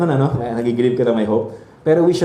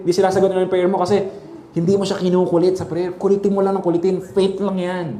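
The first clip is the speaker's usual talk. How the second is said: higher-pitched mock preaching; imitating that kind of preaching, insistent and pitched up; mimicked pushy preacher; 5 semitones higher than usual. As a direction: parody a preacher scolding people to pester harder. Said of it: "How many of you heard that kind of preaching?".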